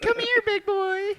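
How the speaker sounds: high, slow mock seductive purr; hammed-up come-on to a cop. Flirty joke about the cops.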